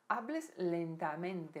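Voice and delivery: "Hables lentamente" devagar, realçando "lentamente"; destaque no advérbio. Shown as a demonstration. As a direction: aponta o advérbio falando pausado. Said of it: "Lentamente é um advérbio". (realce lento em "lentamente")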